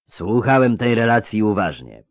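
lightly voiced grating character. A narrator's reading. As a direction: say it with a slight grate. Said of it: "powiedział zgrzytliwy".

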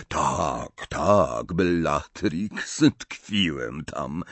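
a note of impatience; impatient. Acted. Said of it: "z nutą zniecierpliwienia w głosie".

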